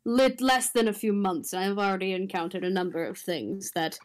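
pointed, measured complaint; deliberately aimed annoyance, with weighted pauses. Acted. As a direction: make the grievance land on a particular listener. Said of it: "he says that so pointedly".

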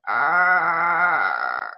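a long drawn-out hen cluck; chicken squawk. A narrator's reading. The chicken on the bus, a long hen squawk. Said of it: "a chicken ... going".

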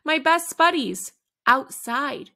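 a happy burst of pride; cheerful emphasis. Acted. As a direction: proudly announce it. Happy about friends outside.

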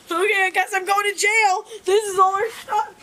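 tearful outburst. Real, not acted. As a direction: sob it out in frustration. Distraught, expects to go to jail.

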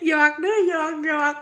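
just kidding, through real laughter; laughing. Real, not acted. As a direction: laugh it off while saying you're joking. Teasing a viewer, then laughing.

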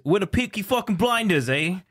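British accent. Shown as a demonstration. Guest showing off an impression on request, British accent. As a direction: put on a cheeky British accent. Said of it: "British accent".

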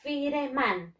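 "Fireman" sounded as fi-re-man; spelling pronunciation. Shown as a demonstration. Teacher asking what the written word means, "Fireman" as fi-re-man. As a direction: say "Fireman" letter by letter as in Spanish, fi-re-man. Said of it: "Así se escribe".

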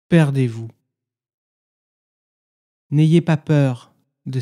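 measured poem recitation with long silences between phrases; meditative poem reading. Acted. Guide reads listeners a Sufi poem as practice, meditative recitation. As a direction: recite each line as an instruction, then leave silence.

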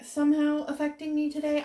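fighting back tears; real crying. Real, not acted. Missing her husband on his trip, voice breaking. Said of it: "epic failing at that right this second".

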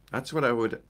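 ordinary talk

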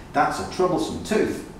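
a hint of a helpful donkey offering. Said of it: "said Danny the donkey".

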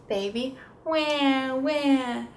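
slow, drawn-out mock wah wah; mock baby cry. Shown as a demonstration. Therapist imitating a crying baby for a child. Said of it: "I'll do".

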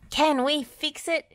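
high rallying call; bright-pitched shouted question, only moderately loud. A narrator's reading. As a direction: call it out to rouse a team. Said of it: "she called".

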